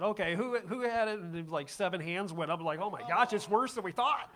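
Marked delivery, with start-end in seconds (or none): 0.0-1.2 louder, higher demand for a culprit; mock-stern who-did-it; exasperated demand. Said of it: "Randy got those phone calls and said". 2.8-4.3 laughing dismay. Retold or imitated. Reaction to seven raised hands.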